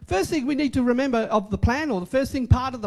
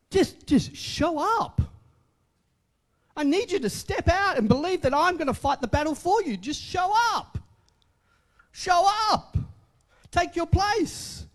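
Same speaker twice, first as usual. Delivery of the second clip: voice of God; 5 semitones higher than usual. Retold or imitated. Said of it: "God's saying".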